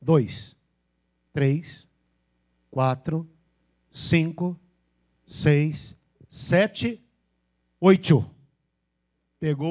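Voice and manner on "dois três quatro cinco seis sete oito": Bahian accent. Shown as a demonstration. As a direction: imitate a baiano counting. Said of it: "Aí o baiano começa".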